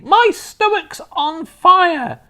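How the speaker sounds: slow, high, loud crone wail; panicked old woman. A narrator's reading. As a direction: wail like a burning old hag. Grandma panicking, burning inside.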